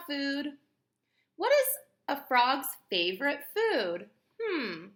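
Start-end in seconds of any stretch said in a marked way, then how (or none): 1.4-4.1 high, loud teasing question; teacher quizzing class; excited question. Acted. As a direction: pop the question.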